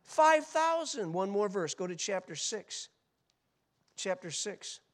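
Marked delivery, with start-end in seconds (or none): 0.0-1.1 loud, high, slow shout; preacher answering his own question to the congregation; triumphant answer. Acted. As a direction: ring the number out. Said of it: "how many, folks?".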